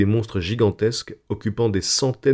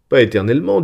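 lifted, louder line with a smile; mild smiling reply; 5 semitones higher, 5 dB louder, faster than usual. A narrator's reading. Gérode correcting his wife about endless emigration, smiling. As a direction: answer with a smile in the voice. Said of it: "dit Gérode avec un sourire".

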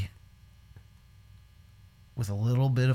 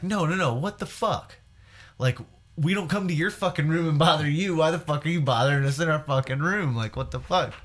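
higher-pitched indignant protest; retold snapping; 5 semitones higher than usual. Drunk friend to man at the door, mock snapping. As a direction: imitate a drunk friend losing patience. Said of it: "he just decides that he's snapping".

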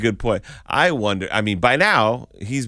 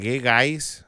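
higher, put-on Minnesota accent; 4 semitones higher than usual. Co-host imitating a woman who moved, Minnesota accent. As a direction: greet them in a mock Minnesota accent. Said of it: "She moved to Minnesota".

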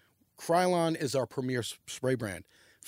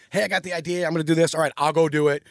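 put-on louder, keen young gofer volunteering; raised, eager retold self-quote; eager go-getter; 2 semitones higher, 5 dB louder, faster than usual. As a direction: act out jumping at the task. Voicing his eager younger self.

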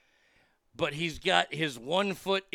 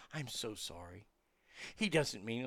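much softer and lower, hushed sorry; soft apology; 5 semitones lower, 11 dB quieter than usual. Retold or imitated. Lunch lady apologizing to the narrator in a hushed, lower voice. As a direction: lean in and apologize quietly.

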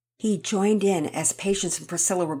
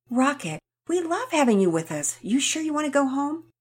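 coaxing; 9 semitones higher than usual. Acted. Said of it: "She coaxed him".

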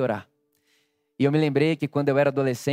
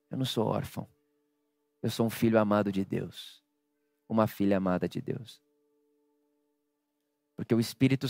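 tender, hushed; 3 semitones lower, 5 dB quieter than usual. Acted. Quiet tender preaching climax.

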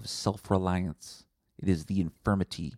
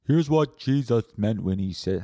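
pastor impression; 6 dB louder than usual. Mocking a pastor.

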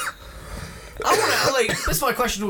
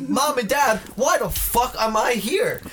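higher, slow mock kid complaint; imitated little kid; 4 semitones higher, slower than usual. Little kid complaining to parents at the movie, mock exasperated. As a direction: lightly play an exasperated child, drawn out. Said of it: "He's like".

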